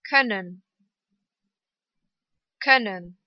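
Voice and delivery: short ö in "Können". Shown as a demonstration. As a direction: keep the ö of "Können" brief. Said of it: "Kurz ausgesprochen".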